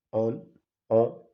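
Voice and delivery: on said as a French nasal vowel with no clear N. Shown as a demonstration. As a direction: hum the on through the nose. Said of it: "la O y la N leídas como".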